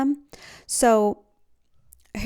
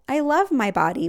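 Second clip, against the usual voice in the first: mock toxic positivity; 4 semitones higher, 4 dB louder than usual. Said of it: "don't jump to a toxic positivity".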